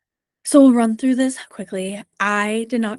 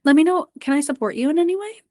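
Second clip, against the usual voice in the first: gently raised, concerned question to an athlete; caring check-in; 5 semitones higher than usual. Shown as a demonstration. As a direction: ask like a coach who noticed something. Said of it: "Say, like".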